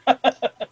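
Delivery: short, soft nervous laugh; a scared little laugh that fails to sound relaxed; nervous forced laugh. Real, not acted. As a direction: laugh it off but unconvincingly. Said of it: "that wasn't a very convincing laugh".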